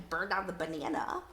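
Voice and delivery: puzzled "burn down the banana?" with a rising end; mock wrong guess. Shown as a demonstration. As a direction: try a silly wrong word, questioning. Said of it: "What's it gotta be".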